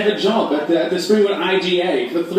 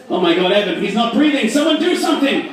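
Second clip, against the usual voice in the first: panicked friend; 5 semitones higher than usual. Acted. Friends panicking over his body.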